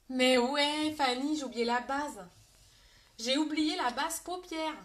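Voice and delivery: loud, exasperated realisation; dismayed outburst. Real, not acted. Makeup artist realising she forgot eyelid base, loud dismay. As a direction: burst out loudly, kicking yourself for the slip. Realises her mistake during the live.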